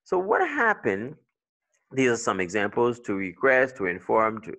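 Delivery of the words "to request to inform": "request" on QUEST, "inform" on FORM; second-syllable stress. Shown as a demonstration. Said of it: "it's on the second if it's a verb".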